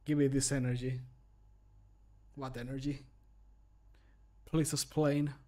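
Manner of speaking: ordinary talk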